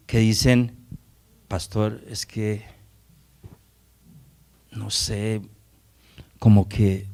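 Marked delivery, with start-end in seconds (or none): 1.5-7.1 soft, halting acted church member; hesitant confiding. Church member reluctantly raising a concern with the pastor, hesitant. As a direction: feel your way quietly, with long pauses.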